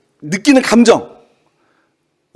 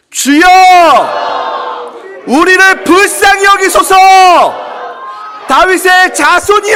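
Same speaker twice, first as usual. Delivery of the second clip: crying out louder; 11 semitones higher, 4 dB louder than usual. Shown as a demonstration. Preacher leads congregation as the blind man, crying out loudly. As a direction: cry out at the top of your voice. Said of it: "더욱 소리를 질러보도록 하겠습니다".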